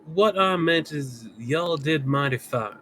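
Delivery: lightly voiced cowboy fan; easygoing Southern cowboy voice; Southern accent. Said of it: "let me get down to Southern".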